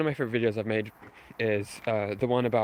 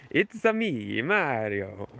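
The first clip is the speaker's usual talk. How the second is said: put-on a hammy Italian accent; Mario voice; much slower than usual. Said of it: "worst Mario impression you've ever heard".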